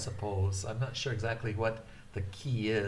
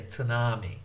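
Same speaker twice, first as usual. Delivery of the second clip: tsunami with a stressed syllable; wrong stressed tsunami; English stress. Shown as a demonstration. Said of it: "We wouldn't say".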